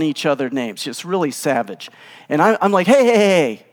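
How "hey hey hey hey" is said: higher, louder repeated heys; calling to interrupt. Acted. Stranger to a couple fighting at the doctor's office, interrupting. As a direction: cut in to break up a squabble.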